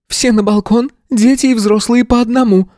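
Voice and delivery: a flustered headmistress taking charge, pitched high; headmistress's order. A narrator's reading.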